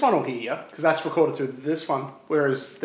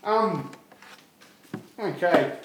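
talking with a mouthful of food; mouth full. Real, not acted. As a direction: speak around food still chewing. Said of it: "I've still got a mouthful of food".

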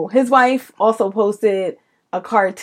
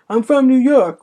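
mock bragging; 4 semitones higher than usual. Mocking someone who calls himself a New Yorker, smug. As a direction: parody a suburbanite bragging. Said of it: "stop keeping being like".

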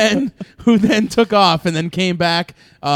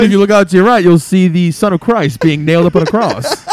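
tour guide announcement; 5 dB louder than usual. Pretend. Joining the airline captain bit.

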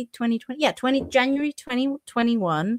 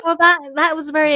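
fast, louder, laughing as you speak; laughing through words; 7 semitones higher, 4 dB louder, faster than usual. Real, not acted. Co-host laughing after the poutine story, talking through laughter. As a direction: still laughing, get the line out.

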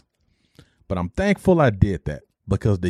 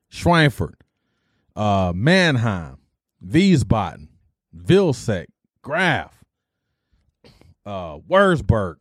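roll call; 2 semitones lower, much slower than usual. Retold or imitated. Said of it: "they're calling people".

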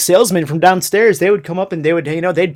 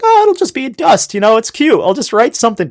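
put-on naive young self; 7 semitones higher, 3 dB louder than usual. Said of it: "and I was like".

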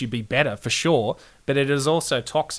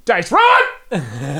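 mock dramatic; 6 semitones higher, 8 dB louder than usual. Mock despair outburst.

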